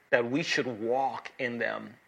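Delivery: "walk in them" slowed and leaned on; emphasis on walk in them. Shown as a demonstration. Preacher stressing scripture to congregation, "walk in them" slowed and weighted. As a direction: lean on "walk" and draw out "walk in them". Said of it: "underline those three words".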